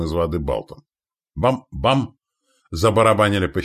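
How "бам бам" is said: high, punchy "bam-bam"; imitated banging. A narrator's reading. Spearheads drumming on shields, imitated banging. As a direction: voice two sharp knocks.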